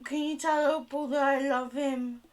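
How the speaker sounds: high gasp, then a breathless request; gasping excitement. Acted. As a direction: overcome with joy about the cat. Gasping excited message about cat.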